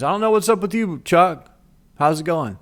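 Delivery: high, breezy, cheeky retort; high sassy teen voice; smart aleck. Retold or imitated. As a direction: answer the vice principal with mock innocence. Brother's cheeky retort in story.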